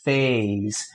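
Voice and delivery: "face" read slowly with a long a. Shown as a demonstration. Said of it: "eu vou ler face". (leitura lenta de face)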